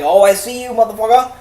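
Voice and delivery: high, loud taunting bunny voice; sassy bunny. Retold or imitated. Bunny catching Ryan sneaking up, high and taunting. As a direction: sneer it like a cocky rabbit. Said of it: "the bunny's like".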